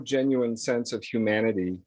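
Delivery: normal talking voice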